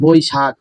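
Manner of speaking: বৈশাখ drawn out slowly by syllable; pronunciation demo. Shown as a demonstration. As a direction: sound out বৈশাখ slowly, as it is pronounced. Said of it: "উচ্চারণ লিখবা".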